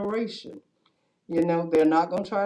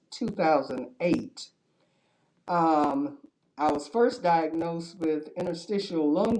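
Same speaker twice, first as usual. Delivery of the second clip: muffled behind a mask; through a face mask. Real, not acted. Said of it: "please excuse my mask".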